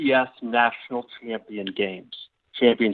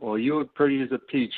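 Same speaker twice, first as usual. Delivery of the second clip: Southern grandfather. Acted. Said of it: "Why are you suddenly a Southern grandfather?".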